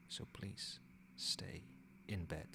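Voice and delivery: hushed, halting plea; gentle pleading. Acted. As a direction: softly urge them to rest. Begging weakened patient to rest.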